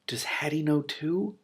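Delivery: breathless whisper, slow; hushed reaction to the story; whispered aside. Real, not acted. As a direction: whisper it to yourself.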